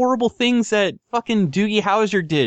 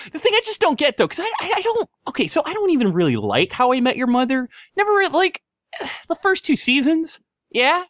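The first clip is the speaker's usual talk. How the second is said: exasperated rant; 8 semitones higher than usual. Real, not acted.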